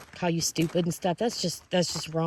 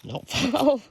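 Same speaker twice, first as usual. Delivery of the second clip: laughing call; 8 semitones higher, 4 dB louder than usual. Real, not acted. Calls to Rachel on the slope.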